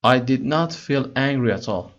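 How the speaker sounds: slow, careful read-aloud of English text; slow story reading. Acted. Teacher reading the English story to students slowly. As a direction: read each word slowly for learners.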